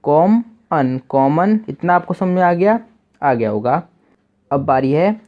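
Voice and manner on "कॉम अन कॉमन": कॉम अन split, then कॉमन blended; syllables then word. Shown as a demonstration. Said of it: "और एन न का".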